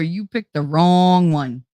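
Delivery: slow, drawn-out warning; slow menacing motto. Retold or imitated. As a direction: lay it out slowly like a threat. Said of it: "my friggin' motto".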